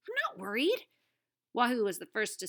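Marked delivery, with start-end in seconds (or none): 0.1-0.9 higher voice, defensive denial; defensive girl voice. A narrator's reading. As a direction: insist you're not scared. Tuna denies fear.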